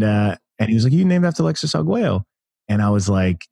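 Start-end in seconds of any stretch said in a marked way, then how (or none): 0.9-2.2 higher, lispy boxer voice, badly done; a playful, hammed-up imitation of a famous boxer; Mike Tyson impression. Champion greeting the young man, in a higher mock boxer voice. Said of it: "that's my terrible Mike Tyson impression".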